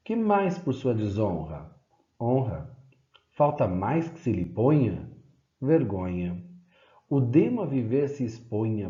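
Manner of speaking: question, then a dropped one-word answer; poem recital. Acted. Teacher reciting a satirical poem, question and answer.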